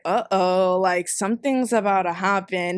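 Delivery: low re-enacted uh-oh; mild foreboding. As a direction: drop the pitch, sensing trouble coming. Retells dread in parked car.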